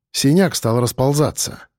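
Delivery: plain reading voice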